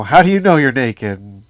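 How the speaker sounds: lightly acted, pointed questioning; God questioning Adam. God confronts Adam in the garden, mock demanding.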